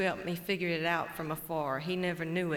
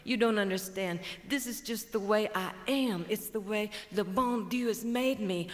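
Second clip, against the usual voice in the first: patient buzzard; 2 semitones higher than usual. Acted. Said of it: "Buzzard says".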